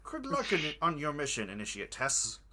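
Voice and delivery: cultist voice. Acted. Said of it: "you switch cultist voices".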